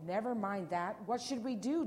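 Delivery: loud, impatient storybook demand; urgent demand. A narrator's reading. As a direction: demand it, rising in pitch. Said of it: "demanded Maurice Hope".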